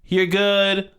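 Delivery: calm it down like a bouncer. Retold or imitated. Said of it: "sounded like a bouncer at a club".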